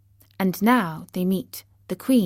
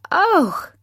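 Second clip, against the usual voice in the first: high-pitched, squeaky mouse subjects; excited little mouse voice; exclaiming mice; 10 semitones higher, 4 dB louder than usual. A narrator's reading. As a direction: exclaim in relief to your queen, high and squeaky. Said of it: "they exclaimed".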